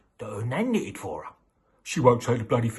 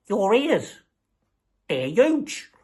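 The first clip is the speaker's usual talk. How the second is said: put-on much higher and louder astonished kid voice; shocked little girl; 10 semitones higher, 5 dB louder, much slower than usual. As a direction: gasp it out like a startled little girl. Red continues questioning wolf-nan.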